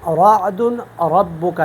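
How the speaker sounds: رعد and ربک with a thick, full R; slow, heavy ra opening رعد. Shown as a demonstration. Teacher comparing readings for students, heavy ra. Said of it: "یہ پر پڑھتا ہوں".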